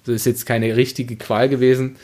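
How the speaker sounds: usual speaking voice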